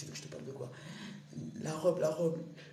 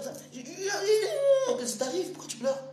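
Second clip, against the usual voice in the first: laughing; 8 dB louder than usual. Real, not acted. Laughing at vocoder.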